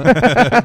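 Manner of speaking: sudden high loud laugh; loud burst of laughter. Real, not acted. Laughs at joke.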